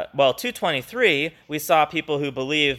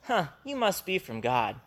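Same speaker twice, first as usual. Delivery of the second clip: casual, slightly quieter mock remark; offhand shrug; 4 semitones higher, 5 dB quieter than usual. Teacher mocking a shallow reaction, offhand. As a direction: toss it off, unimpressed. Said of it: "Nathanael's not just going".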